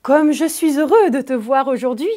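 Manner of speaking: bright happy exclamation with the lift on heureux; joyful exclamation. Shown as a demonstration. Teacher acting out joy to show an exclamation. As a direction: say «Comme je suis heureux de te voir aujourd'hui!» as if thrilled. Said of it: "Elle exprime un sentiment fort. La joie".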